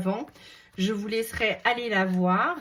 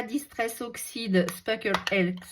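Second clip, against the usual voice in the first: English product name in a French accent; 2 semitones higher than usual. Real, not acted. Vlogger listing craft supplies to viewers, French accent on English. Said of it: "Désolée pour mon accent".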